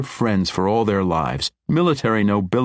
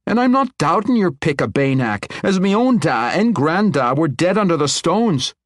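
higher, louder earnest dwarf; earnest young dwarf king; 11 semitones higher, 5 dB louder than usual. Acted. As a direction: speak with steady conviction. Conrad defends Banak choice.

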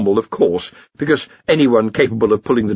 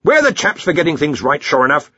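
higher-pitched, hearty self-congratulation; a touch of jovial bluster; pleased Arch-Chancellor; 7 semitones higher, 3 dB louder than usual. A narrator's reading.

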